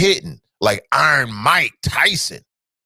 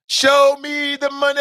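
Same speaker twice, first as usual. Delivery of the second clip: much higher, shouted movie catchphrase; Jerry Maguire line; 9 semitones higher than usual. Retold or imitated. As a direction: belt it like the famous movie line. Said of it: "cue to Jerry Maguire".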